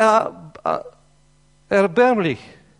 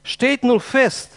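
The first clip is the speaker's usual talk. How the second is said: slow, deliberate "Steht nur fest"; emphatic verse reading; 2 semitones higher, much slower than usual. Real, not acted. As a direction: give each word of "Steht nur fest" its own weight. Preacher repeats the key verse. („Steht nur fest“ langsam und mit Nachdruck)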